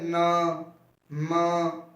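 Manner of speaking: न and म hummed through the nose; separate, held nasal न, then म; nasal sounds. Shown as a demonstration. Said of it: "ये नाक से निकलती है ना".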